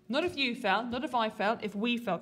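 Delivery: if we fail, with we leaned on; stress on we. Shown as a demonstration. Teacher stressing we to the class, stress on we. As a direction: hit the word we, not you or I. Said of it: "Can you circle the we?".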